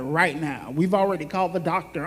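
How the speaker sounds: low, flat and matter-of-fact; firm staff answer. Retold or imitated. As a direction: state it plainly, no room to argue. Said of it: "They were like".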